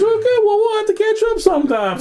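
high-pitched mock-casual reply; cheery small talk. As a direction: act out chirpy hellos over the din. Cheery retold goodbye amid chaos.

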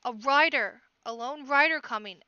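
alarmed cry. A narrator's reading. Frightened crowd passing word of a rider, alarmed shout. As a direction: raise the alarm, voice falling at the end. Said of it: "Frightened murmurs were drifting up from the crowd".

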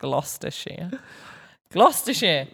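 Gloucestershire said as GLOS-tuh-sheer; British pronunciation. Shown as a demonstration. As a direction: model Gloucestershire, squashed to three syllables. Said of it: "How, how would you say that one".

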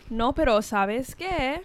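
slow, lightly flirty Colombian Spanish; sexy Colombian accent. Retold or imitated. Imitating a Colombian lady from work phone calls, sexy accent. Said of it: "I never realized how sexy a Col".

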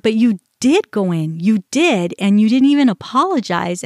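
mild reenacted angry retort; lightly heated comeback; retold yelling. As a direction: push back accusingly, short of a yell. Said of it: "I started yelling".

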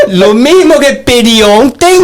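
cracking up while faking Spanish; mock Spanish accent, laughing. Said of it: "Que a merda de espanhol que tô hablando acá".

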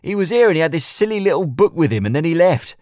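nervous, whiny complaint; Leon's voice. A narrator's reading. Leon voiced, high pitched.

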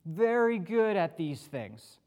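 slow, halting take on Moses; a light hint of Moses, dragging the words out; lightly voiced Moses, slow and unsure; acting like Moses. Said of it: "I tried to be like Moses".

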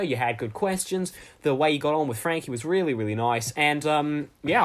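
badly faked Australian accent; an unconvincing Aussie voice, slipping now and then; Mister Aussie. Mister Aussie praising the Frankie episode, bad Australian accent. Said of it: "bad impression of an Australian person called Mister Aussie".

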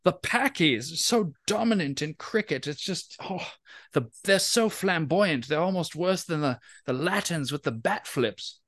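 lightly voiced pompous caller; a hint of a put-on caller voice; tree character voice. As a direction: complain like a snooty know-it-all caller. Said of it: "that's the voice I'm doing for the tree".

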